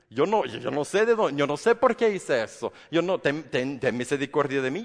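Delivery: a caught thief begging the judge for mercy; mock plea for mercy. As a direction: plead for mercy half-jokingly.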